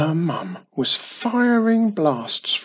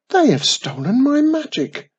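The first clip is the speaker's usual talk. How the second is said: much higher, louder upset cry; upset outcry; 11 semitones higher, 7 dB louder than usual. A narrator's reading. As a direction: Wiz crying out about her stolen magic. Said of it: "she grumbled".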